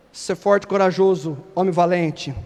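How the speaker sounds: angel's call. Retold or imitated. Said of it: "o anjo vai lá e fala".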